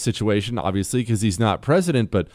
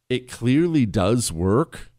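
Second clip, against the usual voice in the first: usual speaking voice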